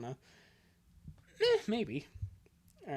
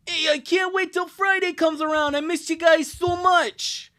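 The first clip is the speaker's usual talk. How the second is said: gushing friend; 12 semitones higher, 8 dB louder than usual. Acted. Friend greeting a family after missing them, gushing. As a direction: voice an eager friend, pitched way up. Voices comic dialogue.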